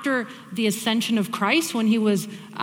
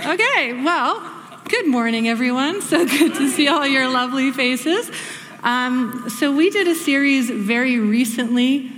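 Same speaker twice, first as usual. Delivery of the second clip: getting louder; 2 semitones higher, 3 dB louder than usual. Real, not acted. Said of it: "Do I sound a little louder still?".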